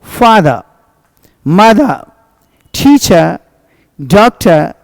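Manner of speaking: फादर like "faa-dhuh", barely any r; final r almost silent. Shown as a demonstration. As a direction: say फादर, मदर, टीचर, डॉक्टर ending in a light "uh". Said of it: "हल्का सा नहीं के बराबर".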